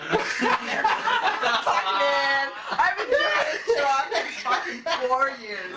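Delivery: cursing through laughter; laughing rant. Real, not acted. Laughing as he tells his friends about the job.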